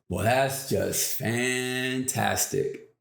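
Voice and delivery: slow, drawn-out mock cheer; cheery reply. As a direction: stretch it out, unbothered and cheery. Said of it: "Why are you so cheery and happy".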